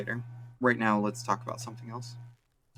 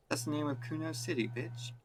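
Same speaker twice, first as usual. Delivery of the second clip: put-on brash kid voice, higher; snotty street brat; cocky street kid; 5 semitones higher than usual. Boy Kuno's voice.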